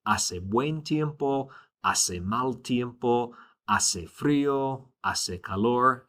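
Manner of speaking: Hace buen tiempo through hace calor said very slowly, H silent, each word clear; slow model phrases. Shown as a demonstration. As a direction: read weather phrases slowly for repetition, silent H. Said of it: "Again, the H is silent".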